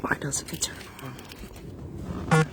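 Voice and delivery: whispered grumble under her breath; whispering to herself. Real, not acted. Woman struggling with her fan, whispering to herself. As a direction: whisper it to yourself, annoyed with the fan.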